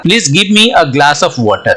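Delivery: very slow, word by word, like dictation; slow example reading. Shown as a demonstration. Teacher reading the example sentence to students, very slow. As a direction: read it out slowly so students follow.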